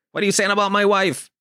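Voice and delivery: hammed-up taken aback demand; offended taxi driver. Taxi driver objecting to talk of his wife, mock offended.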